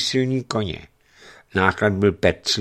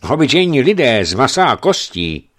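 joking; 6 semitones higher, 8 dB louder than usual. Acted. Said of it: "odpověděl žertem ryšavec".

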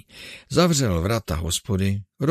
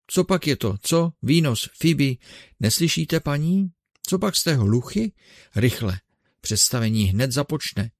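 put-on higher, pressing old showman Ursus; impatient master rousing his servants; urgent old showman; 5 semitones higher than usual. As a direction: hurry the sluggish women along. Ursus urging the women.

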